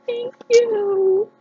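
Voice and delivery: high, slow, teary thanks with a gasp; choked up with gratitude; near tears. Real, not acted. Vlogger touched by a gift she wanted, close to crying. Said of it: "now I'm gonna cry".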